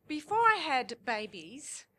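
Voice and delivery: hushed, slow whisper; whispered aside. Real, not acted. Telling the crowd a secret in a whisper. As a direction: let the audience in on a secret.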